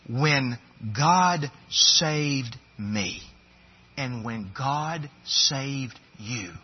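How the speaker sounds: each word laid down slowly, God leaned on; slow, weighty emphasis on "God"; drawn-out preacher's stress on "God". Real, not acted.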